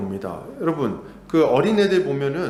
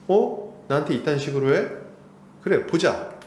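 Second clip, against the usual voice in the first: indignant challenge. Retold or imitated. Adult revenge voiced.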